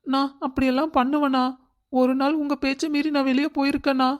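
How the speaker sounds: high, whiny put-on hurt, crocodile tears; fake tears. Daughter-in-law fakes tears to her scolding mother-in-law, high whiny plea. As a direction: plead with pretend hurt to win her over. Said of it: "இந்த நீலி கண்ணீரை விட்டு".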